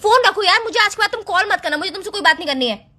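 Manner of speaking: annoyed dismissal; irritated, firm brush-off; angry. Acted. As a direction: shut the caller down crossly. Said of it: "एकदम इतना गुस्से में?".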